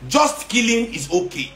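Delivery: slow, sarcastic parroting of critics; mock quote. Ranting to viewers, slowly mocking what people say. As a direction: drag it out, mocking their logic. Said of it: "this is what I'm learning from people today".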